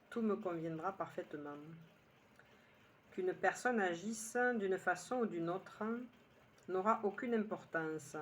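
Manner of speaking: measured poem recital with pauses between lines; unhurried phrase-by-phrase recitation; poem reading. Acted. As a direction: read your poem line by line, letting each one settle. Reads her own poem aloud.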